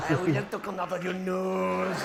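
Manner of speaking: hammy French waiter voice; French accent. Acted. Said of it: "give it a French accent".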